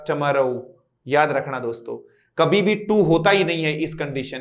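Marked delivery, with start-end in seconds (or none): 0.1-0.8 "टमारो" with a short t-uh start; weak schwa. Shown as a demonstration. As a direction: reduce the first vowel in "टमारो". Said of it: "टुमारो नहीं होगा".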